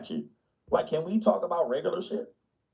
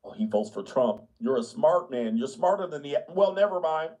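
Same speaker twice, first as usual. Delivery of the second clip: lightly voiced condescending older man; hint of patronizing compliment; patronizing conservative. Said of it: "Conservative white people be like".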